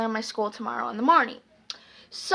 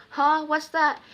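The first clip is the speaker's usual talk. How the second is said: higher-pitched fake clueless question; feigned confusion; 4 semitones higher than usual. Daughter pretending to freak out to Mom, feigned confusion. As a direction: play dumb, lightly mock puzzled. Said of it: "I'm just pretending to freak out".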